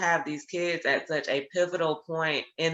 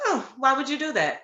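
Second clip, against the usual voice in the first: amused challenge; 8 semitones higher than usual. Retold or imitated. Teacher retells gentle challenge to girl.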